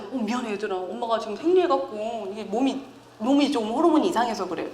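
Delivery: a soft, sorry explanation; apologetic mom. Retold or imitated. Mother apologizes to her children after yelling, soft and sorry. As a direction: apologize gently to the kids. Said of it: "화를 내고 나서".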